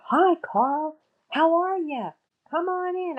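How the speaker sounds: bright high greeting; cheery aunt. Retold or imitated. Aunt welcoming dad into heaven, high and cheery.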